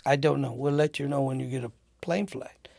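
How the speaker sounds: lightly attempted British accent; half-hearted, faked British; terrible British accent. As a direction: imitate a British airline worker, badly. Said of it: "It's a great British accent".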